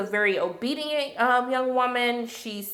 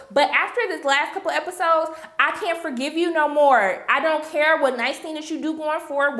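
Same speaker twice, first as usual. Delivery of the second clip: raised-pitch emphatic telling-off; mock scolding; 3 semitones higher than usual. Reviewer telling Serena she can't forgive her, scolding. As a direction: lay into her in pretend confrontation.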